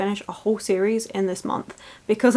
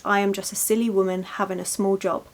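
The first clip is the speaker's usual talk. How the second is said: silly apologetic tone. Retold or imitated. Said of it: "don't say it in that silly tone, oh so apologetic".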